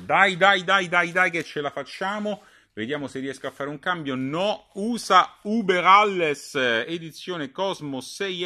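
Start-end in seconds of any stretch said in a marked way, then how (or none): 0.1-2.4 high, loud come-on-come-on; urging on. Real, not acted. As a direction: push it through, egging yourself on. Urging himself on, struggling. (incitamento acuto e forte)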